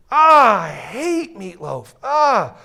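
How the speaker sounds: slow, far-off complaining groan; grumbling worker. Retold or imitated. Worker at lunch hating his sandwich, in a slow complaining groan. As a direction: moan about the meatloaf. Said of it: "He's like".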